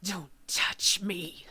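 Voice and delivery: slow, unvoiced menacing whisper; hissed warning. Zalora recoiling from the human maid, slow menacing whisper. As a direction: whisper it like a threat.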